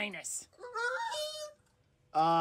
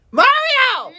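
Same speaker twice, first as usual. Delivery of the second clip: loud high call across the house; shouting a name; 14 semitones higher, 5 dB louder than usual. Acted. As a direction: yell his name to wake him. Waking the kid up, shouting.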